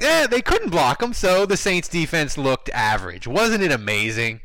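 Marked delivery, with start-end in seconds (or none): 0.0-3.3 mock dismissive. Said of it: "we'd be like".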